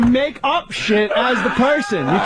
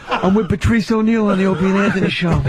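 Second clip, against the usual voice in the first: lightly voiced action star; a hint of wry movie-hero patter; Bruce Willis.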